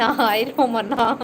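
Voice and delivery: slow greeting through a laugh. Real, not acted. Streamer greeting a regular viewer, laughing. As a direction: say hi while laughing.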